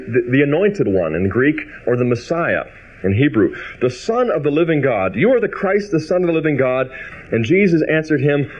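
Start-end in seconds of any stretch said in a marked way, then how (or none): 3.8-8.5 solemn scripture reading. Acted. Preacher voicing Peter's confession, lifted and solemn. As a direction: proclaim it as Peter's answer.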